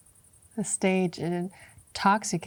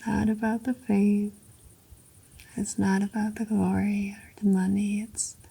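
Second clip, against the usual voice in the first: louder, fervent declaration; building passion; 4 dB louder than usual. Acted. Actress declaring her faith to Kostya, fervent and louder. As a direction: swell with conviction toward endure.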